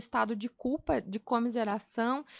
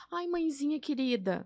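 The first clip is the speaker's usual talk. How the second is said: sugary pet-name tone, a touch higher; mock sweet talk to mom; 4 semitones higher than usual. Imagined Jesus sweet-talking his mother, mock sugary. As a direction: sweet-talk your mommy, half joking. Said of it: "Não, Jesus não falou desse jeito".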